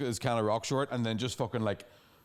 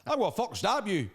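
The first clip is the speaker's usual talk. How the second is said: mock threat; 8 semitones higher than usual. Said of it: "angry North Coast people".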